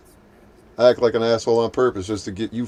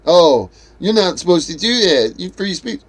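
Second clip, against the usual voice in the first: lightly voiced whiny troll, higher; mocking trolls; 4 semitones higher than usual. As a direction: parody the complaining troll. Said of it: "trolls complaining after being blocked".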